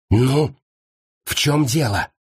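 restrained, hissed irritation from a teacher; angry hiss. A narrator's reading. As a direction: hiss it crossly without raising the volume. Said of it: "зло прошипела мисс Дежардин".

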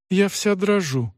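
high, slow, frightened little voice; a scared young mother stammering it out; trembling murmur. A narrator's reading. A young mother frightened in labour, to the stern aunt, trembling. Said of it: "пролепетала моя мать".

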